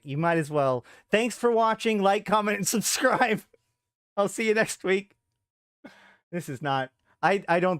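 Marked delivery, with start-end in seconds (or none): 1.1-5.1 loud, higher-pitched sign-off spiel; mock video sign-off. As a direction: send up an upbeat outro.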